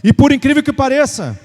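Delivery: emphatic, measured scripture declamation; preaching scripture. Real, not acted. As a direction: proclaim the verse to the congregation. (proclamando a Escritura com ênfase)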